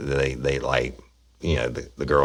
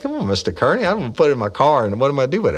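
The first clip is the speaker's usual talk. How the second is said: mock protest; 11 semitones higher, 4 dB louder, much faster than usual. Speaker retells own protest.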